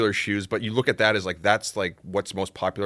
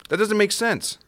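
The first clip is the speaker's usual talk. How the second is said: incredulous; 12 semitones higher than usual. Real, not acted. Objecting to cheap suede claim.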